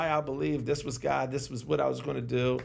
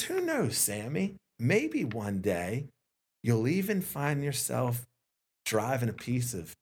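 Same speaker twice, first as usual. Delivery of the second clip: dramatic pause. Retold or imitated. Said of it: "long dramatic pause".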